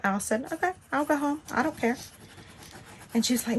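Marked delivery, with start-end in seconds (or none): 0.5-2.0 defiant. Retold or imitated. Defying the nurse.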